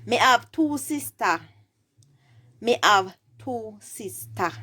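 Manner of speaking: Jamaican Patois teaching demo. Shown as a demonstration. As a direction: model the reply in Jamaican Patois. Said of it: "my response would be".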